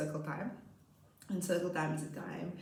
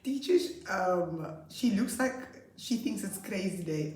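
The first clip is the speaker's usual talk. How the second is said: put-on child voice. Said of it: "Then the one boy says".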